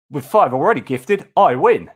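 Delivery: lightly imitating an Australian viewer's accent. Thanking a generous viewer, light Australian accent imitation. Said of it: "in my best Aussie accent".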